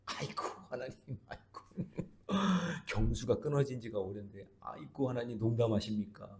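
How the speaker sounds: a soft, light mock of scoffing Sarah; quietly mock her disbelief. Sarah scoffing at God's promise, mild and soft. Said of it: "비웃었잖아요".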